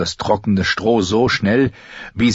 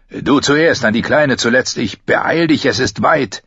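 raised, pressing voice; urgent instructions; 3 semitones higher than usual. Acted. Gendry sending Arya down first, urgent. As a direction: hurry them into the tunnel. Gendry hurries escape from burning barn.

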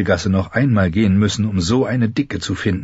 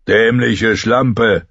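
slow, scornful insult hurled upward; a lightly voiced man cursing; fat man calling up; 3 semitones higher, 3 dB louder, much slower than usual. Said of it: "rief der dicke Mann hinauf". (langsam verächtlich hinaufgerufen)

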